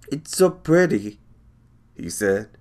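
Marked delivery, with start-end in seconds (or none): 0.1-1.2 put-on awed child. Doodle awed by the swamp.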